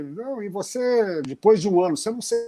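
choppy, freezing video call audio; words breaking up as the connection lags; buffering stutter. Real, not acted. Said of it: "Travou, Sérgio".

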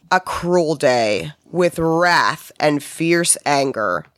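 slow, lightly voiced biblical warning; ominous prophet voice. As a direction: intone it slowly like a doom prophecy. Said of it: "he said".

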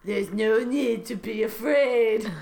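slow, drawn-out comic seducer; mock-reassuring Trump. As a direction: soothe with exaggerated slowness. Voices Trump reassuring in fan fiction.

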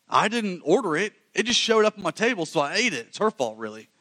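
high, whiny, blaming; mock excuse-making Adam. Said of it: "Adam looks at God and says".

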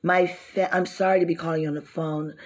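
sweet, proper phone caller voice; polite white girl voice. Shown as a demonstration. Asking a loan officer for a loan in a polite white girl voice. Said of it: "trying to show y'all how the white girl voice".

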